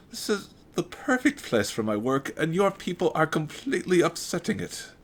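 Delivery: a huffy German doctor. Acted. The doctor complains about his work, German accent.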